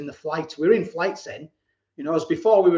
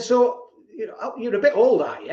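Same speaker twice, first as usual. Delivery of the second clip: teasing instructor; 5 semitones higher, 4 dB louder than usual. Retold or imitated. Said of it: "and he said".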